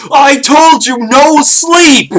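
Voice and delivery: put-on high, loud little-kid shout, far above his own voice; toddler's defiant yell. Son bursting in at night, high loud defiant kid yell. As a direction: bellow it like a tiny boss refusing bed. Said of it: "he swings the door open and goes".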